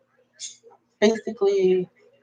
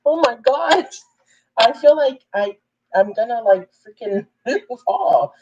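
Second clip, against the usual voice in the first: laughing panic; 4 semitones higher than usual. Retold or imitated. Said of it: "And I was like".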